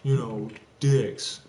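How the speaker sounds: slow, snide mock voice; lightly put-on sarcastic tone; mocking bitter voice. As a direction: drag it out like a sneering gossip. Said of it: "I'm not gonna go".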